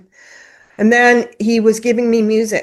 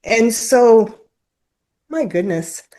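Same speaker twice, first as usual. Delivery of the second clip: tearful apology. Real, not acted. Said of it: "It's a little bit raw still".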